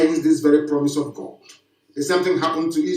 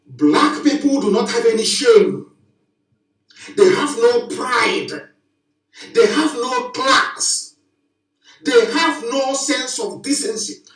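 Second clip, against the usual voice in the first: slow, shouted, higher preaching, each no hammered; impassioned shout; 4 semitones higher, slower than usual. Real, not acted. Preacher shouting condemnation at his black audience, impassioned shout. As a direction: thunder it from the pulpit.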